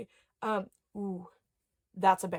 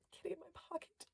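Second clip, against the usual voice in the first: higher, softer, thrilled repeat; delighted squeak; 8 semitones higher, 17 dB quieter, much faster than usual. Real, not acted. To viewers, repeating the toy's name, a soft high coo.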